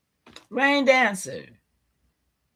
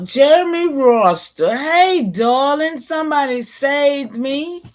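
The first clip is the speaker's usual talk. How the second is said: relieved greeting; 3 semitones higher, 7 dB louder than usual. Real, not acted. Relieved greeting to returning viewer.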